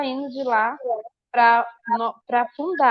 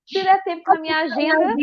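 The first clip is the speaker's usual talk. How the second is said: snobbish madre; 4 semitones higher than usual. Retold or imitated. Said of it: "acho que ela queria me esnobar".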